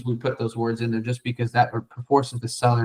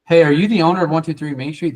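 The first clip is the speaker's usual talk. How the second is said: salesy pitch; 4 semitones higher, 5 dB louder than usual. Shown as a demonstration. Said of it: "versus you just saying".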